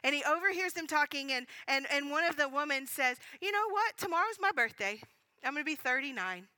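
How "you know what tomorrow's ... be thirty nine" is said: higher-pitched opening, settling as it goes; voiced birthday announcement. Woman tells her friend about her birthday, lightly excited. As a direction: lightly act out a woman announcing big news.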